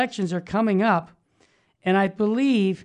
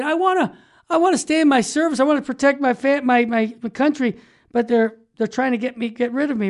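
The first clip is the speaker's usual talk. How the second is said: higher, faster, pushing plea; urgent pleading; 4 semitones higher than usual. Retold or imitated. Soldiers telling the ministry they want to stay, urgent pleading. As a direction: imitate soldiers begging to stay in service, quicker and up high.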